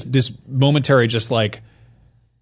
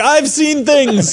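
higher, very slow, hammed-up haunted voice; mock-solemn hunter, much higher and slow; 13 semitones higher, 4 dB louder, much slower than usual. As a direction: drag out the trauma for laughs. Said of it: "And he's like".

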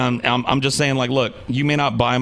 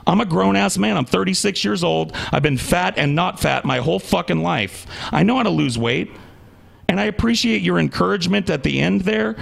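higher-pitched, aggrieved protest; indignant; 4 semitones higher than usual. Real, not acted. Grown man objecting to preachy diet advice, indignant. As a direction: push back hard, voice riding higher.

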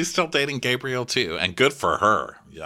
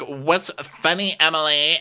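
mock peeved; 6 semitones higher than usual. Confronting Emily for laughing, high mock annoyance. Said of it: "And she's like".

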